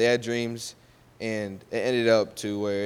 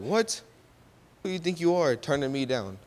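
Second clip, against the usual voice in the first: indignant outburst; 5 semitones higher than usual. Retold or imitated. Wife turned down by Joseph, much higher indignant outrage. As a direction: hurl it back at him, insulted.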